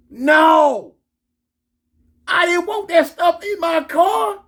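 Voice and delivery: high, wailing refusal; loud, whiny protest; hammed-up outrage. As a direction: stretch it out in comic despair. Acted comic outburst about his car.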